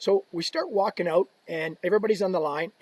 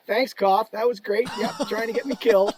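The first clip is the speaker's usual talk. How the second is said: higher, indignant mock gratitude; sarcastic thanks; 5 semitones higher, 4 dB louder than usual. Player to teammate after a suicide pass, sarcastic. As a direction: sarcastically thank the man who endangered you. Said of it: "give him the old Harry Stink eye".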